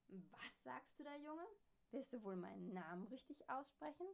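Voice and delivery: angry neighbour. A narrator's reading. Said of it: "ist sehr ärgerlich".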